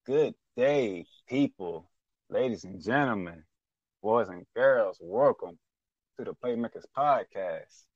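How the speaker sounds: big showman welcome with punched words; announcer intro. Acted. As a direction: open the show like an emcee. Host opens show like announcer.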